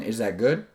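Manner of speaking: GOOD turns up at the end; seeking rapport. Shown as a demonstration. Coach repeating the tonality demo, rising end on GOOD. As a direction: lift GOOD as if asking. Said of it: "it goes up a little bit".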